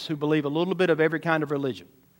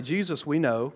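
demon voice; 3 semitones lower, 7 dB quieter than usual. Acted. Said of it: "The demon responds this way".

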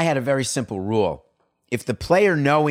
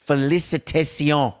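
French; 3 semitones higher than usual. Real, not acted. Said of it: "I don't know why I just spoke French".

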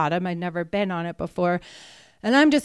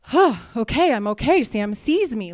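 relieved gasp; 3 semitones higher, 5 dB louder than usual. Retold or imitated. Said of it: "and I was like".

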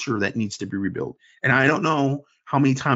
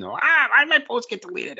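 much higher whiny complaint; mock whining fan; 12 semitones higher than usual. Mocking fans crying over deleted posts. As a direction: whine like a sulking poster. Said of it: "they start crying about moderation".

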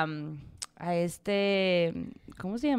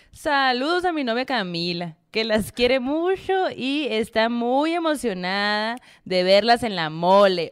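northern Mexican accent; 3 dB louder than usual. Shown as a demonstration. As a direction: read it like a northern Mexican girl. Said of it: "Ahora ya voy a hacerlo".

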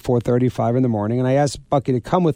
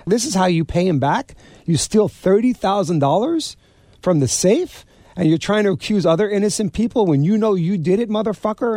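higher, heated retold tirade; retold angry rant; 5 semitones higher than usual. Bucky berating the thieving manager, heated and high. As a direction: chew him out like a wiseguy, pitch climbing. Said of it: "Bucky gets up and says".

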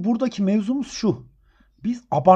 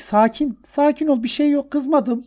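calming; 5 semitones higher than usual. Retold or imitated. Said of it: "dedim ki". (panik yapan öğrenciyi yavaşça yatıştırarak)

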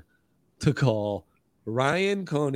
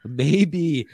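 ad read; 3 semitones higher than usual. Acted.

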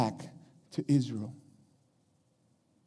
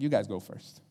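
soft, low, offhand courtesy; polite offer; 7 semitones lower, 7 dB quieter than usual. Retold or imitated. Preacher as Elijah letting the prophets go first, gentlemanly and low-key. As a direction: quietly wave the others ahead. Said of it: "He was a gentleman".

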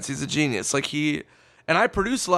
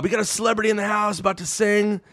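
tag-along emcee imitation; 5 semitones higher, faster than usual. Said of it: "And he goes".

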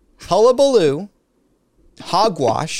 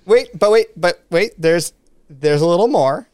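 host mocking a shopping channel, louder; infomercial pitch; 4 dB louder than usual. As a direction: play a TV salesman teasing more.

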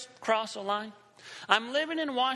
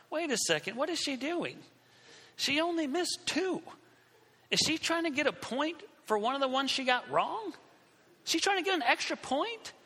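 incredulous, higher-pitched inner protest; indignant disbelief; 5 semitones higher than usual. Retold or imitated. Student silently protesting a classmate's greed for points, indignant disbelief. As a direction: question it in rising disbelief.

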